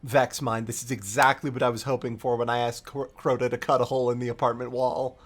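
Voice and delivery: deadpan grumble about the gift; sarcastic Savathun. Retold or imitated. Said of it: "And she's like".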